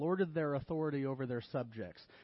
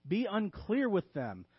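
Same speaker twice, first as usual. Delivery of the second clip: higher, emphatic mock instruction; deadpan sarcastic command; tongue-in-cheek; 3 semitones higher, slower than usual. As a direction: announce bad advice as a serious rule. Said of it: "in a tongue-in-cheek manner".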